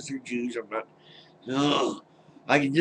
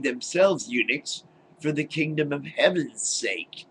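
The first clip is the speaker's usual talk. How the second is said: reading God's words. Retold or imitated. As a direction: read the verse like a pompous preacher, mockingly. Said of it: "he goes".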